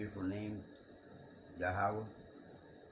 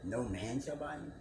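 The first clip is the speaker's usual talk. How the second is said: rising, disbelieving echo of the verse; incredulous question; 5 semitones higher than usual. Shown as a demonstration. Rereading the verse, questioning it in disbelief. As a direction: repeat it back in disbelief. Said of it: "I can't be speaking of America".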